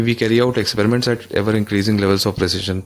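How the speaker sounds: slow, careful reading of an English line; reading the textbook. Shown as a demonstration. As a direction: read it out slowly, word by word. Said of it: "कहता है कि". (किताब से धीरे-धीरे पढ़ते हुए)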